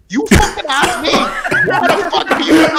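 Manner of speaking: high-pitched, hammed-up outrage; mock outrage. Retelling a reply to the store clerk, high mock outrage.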